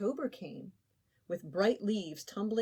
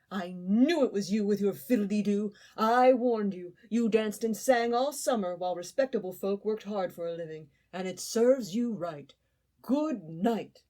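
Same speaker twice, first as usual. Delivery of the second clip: louder, stern told-you-so lecture; scolding Ant; 7 dB louder than usual. Acted. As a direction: shut the door on him with words.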